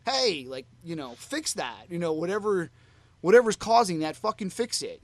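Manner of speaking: half-acted irritation, building toward the end; retold pissed-off singer. Fan imitating singer annoyed by technical trouble, mock pissed-off. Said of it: "pissed off there".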